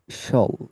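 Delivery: শল as one clear "shol" syllable; demonstrated pronunciation. Shown as a demonstration. Teacher asking students to listen to the voice, demonstrated "shol". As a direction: model the sound শল, "shol". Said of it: "আমার ভোকালটা শুনবেন".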